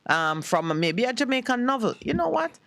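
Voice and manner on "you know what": higher, excited realisation; as if a bright idea just hit; sudden realisation. Real, not acted. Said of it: "Why am I just speaking like this".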